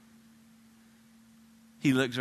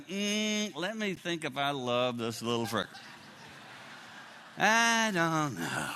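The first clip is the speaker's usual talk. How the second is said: mock deliberation; slower than usual. Mock hesitant dad holding newborn.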